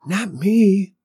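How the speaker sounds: tiny, high, timid flower voice; small bashful stage whisper; shy whispering flower. A narrator's reading. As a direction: pipe up shyly, very high. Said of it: "whispered the flower".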